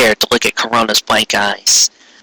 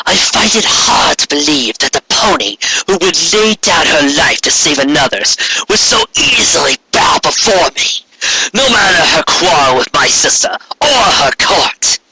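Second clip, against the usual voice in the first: regal alicorn queen; 4 semitones higher than usual. Acted. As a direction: speak like an imperious queen granting favor. Corona regal speech.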